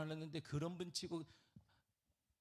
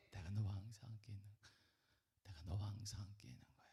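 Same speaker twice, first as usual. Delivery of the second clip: soft intimate whisper, breath only; tender whispered reassurance; 6 semitones lower, 7 dB quieter than usual. Shown as a demonstration. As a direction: hush it like a secret promise. Pastor whispers Jesus's promise.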